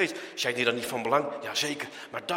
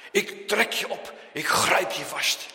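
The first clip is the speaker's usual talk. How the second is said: firm, loud, emphatic rescue promise; strong fatherly voice, word by word; divine father; 3 semitones higher, 6 dB louder than usual. Acted. Divine father answering his child's cry, firmly and loudly. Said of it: "Wat zegt die goddelijke vader?".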